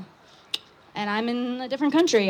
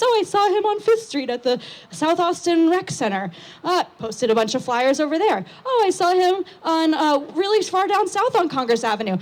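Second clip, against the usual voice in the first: mock neighbour tip-off; 5 semitones higher than usual. Texters reporting bike sightings.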